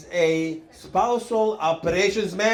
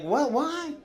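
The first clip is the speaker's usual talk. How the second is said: incredulous what; 7 semitones higher, 3 dB quieter than usual. Retold or imitated. Incredulous reaction in retold story.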